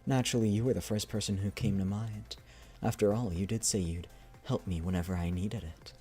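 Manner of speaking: soft, measured story reading; unhurried dramatic reading, trailing softly at the end; message read aloud. Acted. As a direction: read the letter out gently and evenly. Reads a character's message aloud.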